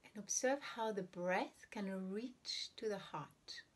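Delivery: unhurried meditation guidance with long silent pauses; guided meditation. Real, not acted. Teacher guiding listeners to breathe and observe the heart, guided meditation. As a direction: ease listeners into breathing, leaving room between phrases.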